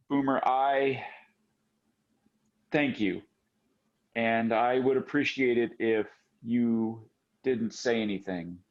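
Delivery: low, halting, restrained thanks; collected after crying. Acted. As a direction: gather yourself, pausing between phrases, pitch dropping. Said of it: "stands up and kinda collects herself".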